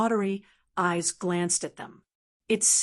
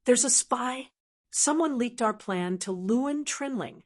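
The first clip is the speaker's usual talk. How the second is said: hateful; 3 semitones higher than usual. Acted. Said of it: "said hatefully".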